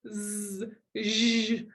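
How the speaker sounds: a long buzzed z, then zh; held fricatives. Shown as a demonstration. Therapist demonstrating long fricative sounds. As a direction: stretch out each fricative. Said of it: "these long sounds like".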